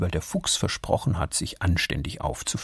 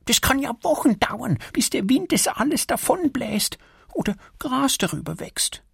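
little squirrel Erik. Acted. Erik complains about the rubbish in the woods. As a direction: play a small annoyed squirrel.

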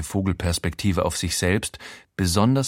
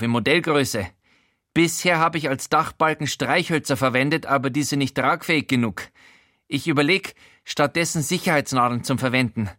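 a fussy, nosy voice pitched up; Showalter's voice; 5 semitones higher than usual. Acted. Housemate Showalter startles the naked narrator, high. Showalter explains his model.

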